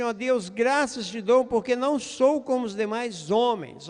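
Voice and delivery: mildly imitated haughty prayer; self-important, lightly acted; mock arrogance. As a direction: give thanks like someone looking down on others. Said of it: "Olha a arrogância e a prepotência".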